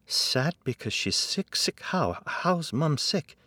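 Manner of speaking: worried son, voice climbing; anxious questioning. Acted. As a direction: press for an answer in rising alarm. Son presses dad for answers.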